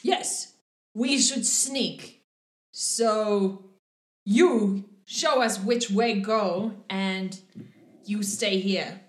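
a hint of a blunt half-orc giving orders, slow; Biggin commanding. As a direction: spell out the plan slowly to the captive. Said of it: "Biggin says".

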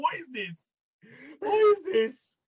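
high, incredulous outburst, rising on the repeat; mock bafflement. Viewer reacting to an Oliver-like show, mock bafflement.

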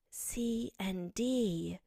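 very slow, careful whisper. A narrator's reading. Alice to the Mouse, half afraid of offending, whispered. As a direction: whisper it, drawing out each letter. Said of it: "she added in a whisper".

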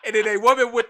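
rushed words through laughter; giggling through the line; laughing. Real, not acted. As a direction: talk fast while laughing. Laughing while retelling.

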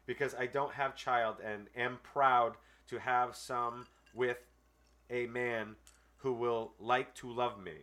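slow, deliberate read of a clumsy letter; dry dramatic reading; reading a letter aloud. Acted. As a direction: read it word for word, pauses and all. Reads a scam letter aloud.

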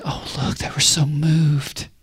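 mock-awed, breath-held hush, drawn out slowly; moved onlookers. People around the weepers remarking on them, mock-moved hush. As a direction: gush softly and slowly, imitating pious bystanders. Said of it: "all the people around them will say".

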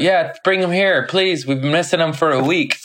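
light, pleading lift on please; eager owner. Retold or imitated. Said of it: "they're like".

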